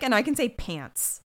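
talking while sick; a stuffy sick voice. Real, not acted. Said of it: "I'm sick".

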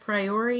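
"Priory" as pry-OR-ee, rising; stress on ORY. Shown as a demonstration. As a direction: push the OR in "Priory". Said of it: "put the emphasis on Ori".

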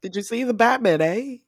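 playful imitated Canadian; chatty mock Canadian with an "eh" on the end; badly faked Canadian accent. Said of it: "that Canadian accent".

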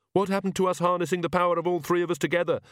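fast, sharp hiss; urgent hiss. A narrator's reading. Magrat hissing at Nanny, fast urgent hiss. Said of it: "hissed Magrat".

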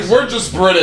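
high mock British; British accent. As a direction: put on a posh Brit voice. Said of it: "We're practicing our British".

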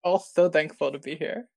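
slow, joyless deadpan. Pretend. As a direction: say it as if thanks were a chore. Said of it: "You all sound so happy and so joyful".

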